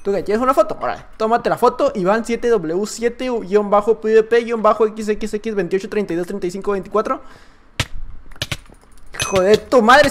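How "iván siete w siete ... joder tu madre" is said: normal talking voice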